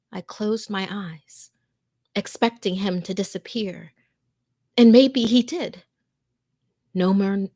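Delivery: tense, hushed first-person horror narration; scary story told to listeners, fearful; horror story reading. A narrator's reading. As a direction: read it like a frightened victim hiding in a closet.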